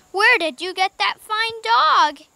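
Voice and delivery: loud, high, drawn-out question; surprised cry. A narrator's reading. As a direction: exclaim in slow amazement. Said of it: "he cried".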